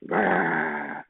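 lion roar. A narrator's reading. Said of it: "said the lion".

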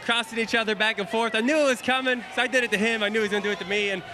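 breathless after the race; talking while out of breath. Real, not acted. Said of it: "Jamie, I'm way out of breath here".

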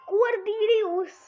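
slow, high disbelieving question; incredulous. Real, not acted. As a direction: drag the name out in disbelief.

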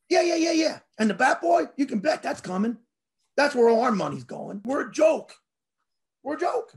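high-pitched, exasperated mock rant; sarcastic rant. Fan griping to an old fan about wasted money, sarcastic.

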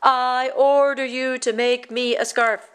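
put-on king commanding the boy. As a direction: bark the order like a king.

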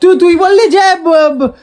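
stuck on repeated syllables; stammering. Real, not acted. Boy accusing sibling over a promise, stammering. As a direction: stutter and restart the accusation. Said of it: "তোতলাস কেন".

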